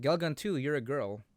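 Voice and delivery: ordinary talk, nothing marked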